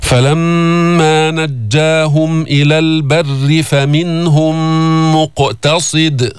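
slow, drawn-out tajweed chant; Quran recitation. Shown as a demonstration. Teacher reciting to students in slow chant. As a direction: recite each word long and measured.

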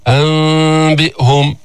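"أنبئهم" slowly, nasal hum with lips not closed; wrong lip gap. Shown as a demonstration. Teacher showing the error, "أنبئهم" with open-lipped hum. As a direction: leave a slight gap instead of a true m. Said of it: "تترك فرجة".

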